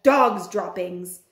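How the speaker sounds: drawn-out low chant of the words; slow low cry. Acted. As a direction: moan it slowly, low. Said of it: "they shouted".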